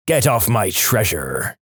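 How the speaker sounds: slow, lightly voiced pirate; mild pirate impression. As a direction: draw it out with a hint of pirate. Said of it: "in a pirate voice".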